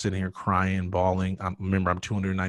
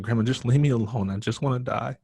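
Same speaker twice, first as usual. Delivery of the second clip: higher plea, loud then easing; retold exasperated outburst; acted desperate plea; 4 semitones higher, 3 dB louder than usual. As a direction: push her away with your voice. Acted pushing grandmother away.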